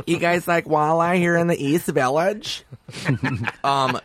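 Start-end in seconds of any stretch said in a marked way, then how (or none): 0.1-2.6 higher, slower hokey Minnesota voice; Minnesota accent. Pretend. Clean Minnesota comic pitching to a rough New York room, light Minnesota accent. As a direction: play the naive Minnesota kid, a light Minnesota accent. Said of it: "Minnesota boy".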